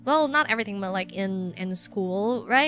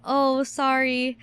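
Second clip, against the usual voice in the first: slow, meek little apology; 2 semitones higher, much slower than usual. Acted. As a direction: apologise like someone just told off. Meek answer to scolding inner voices.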